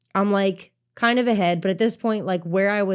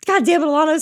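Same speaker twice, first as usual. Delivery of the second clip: loud, high retold curse; exasperated outburst, pitched up; mock exasperation; 8 semitones higher, 6 dB louder, faster than usual. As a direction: curse a rival in playful frustration. Retold frustration at rival catching up.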